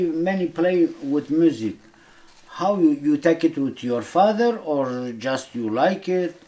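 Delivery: usual speaking voice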